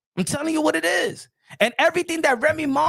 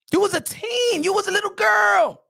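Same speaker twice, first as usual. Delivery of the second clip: high-pitched scolding; 6 semitones higher than usual. Real, not acted. Scolds Clarissa for her youth then.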